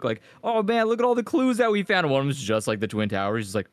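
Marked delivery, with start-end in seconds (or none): 0.4-2.1 mock Steve voice. Imitating Steve from Blue's Clues.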